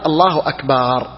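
أكبر mispronounced as "akbaar"; long final aa. Shown as a demonstration. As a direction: stretch the last vowel of أكبر after الله. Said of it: "هذا لا يجوز".

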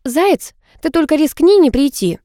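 high-pitched, pointed threat; cross warning; threatening. A narrator's reading. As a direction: dare them with menace. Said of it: "пригрозила я".

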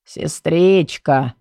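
hoarse, drawn-out call; raspy smoker calling out slowly; smoker's rasp. Acted. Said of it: "позвал хриплым, прокуренным голосом".

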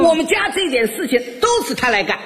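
put-on high-pitched, gushing old mother-in-law; praising mother-in-law. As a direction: brag about your son-in-law to all the neighbours. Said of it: "一边夸我". (岳母尖声夸女婿)

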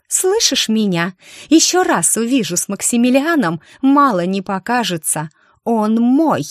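high, loud, venomous threat; hissing threat. Acted. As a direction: hiss it like a snake. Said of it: "прошипела змея".

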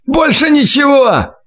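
high, slow desperate cry; shouted out. A narrator's reading. Terrified scout answers the interrogator, high desperate shout. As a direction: cry it out in terror.

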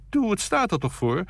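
high, pleading insistence; coaxing hostess. A narrator's reading.

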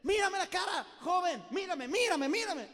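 put-on high, loud shout at one young man; shouting preacher. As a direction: yell at the boy in the sixth row. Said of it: "a cada rato que se distraía".

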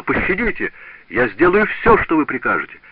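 high, frantic begging for mercy; pleading in fear. Acted. Apprentice begging the furious master for mercy, high and frantic. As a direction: beg for your life.

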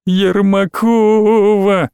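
drawn-out high wail, very slow; howling the name. A narrator's reading. Alina to Igor, howling the rival's name. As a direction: howl it out in pain. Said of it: "провыла Алина".

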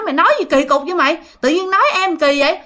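fast, high scolding. Retold or imitated. Aunt scolding her daughter for the insults, fast high scolding. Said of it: "dì Năm á, là cũng đánh vô người chị".

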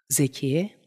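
ordinary delivery

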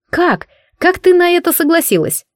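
shocked disbelief. A narrator's reading. Friend shocked at news.

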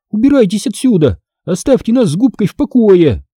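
high-pitched, exasperated command; cross order. A narrator's reading. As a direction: send them away firmly. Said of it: "отрезала я".

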